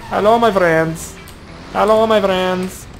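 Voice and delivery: high, slow drawn-out hello; put-on greeting. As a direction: greet them like a sly stranger, slowly.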